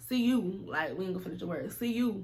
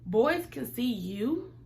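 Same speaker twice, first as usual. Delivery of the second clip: naive confusion; 3 semitones higher, much slower than usual. Retold or imitated. Naive confused question to friend.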